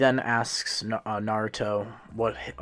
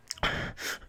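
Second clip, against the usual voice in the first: shaky sob; 6 dB quieter than usual. A narrator's reading. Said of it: "He blubbers and tries to explain".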